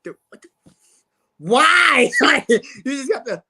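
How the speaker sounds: loud, half-crying why; mock anguish. Fan crying out at the pick, mock anguish. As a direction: wail the question in mock despair. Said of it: "everybody's like".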